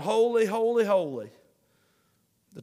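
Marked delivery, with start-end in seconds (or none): 0.0-1.3 raised, ringing proclamation; crying out. Acted. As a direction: lift the voice on each word. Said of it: "cry out".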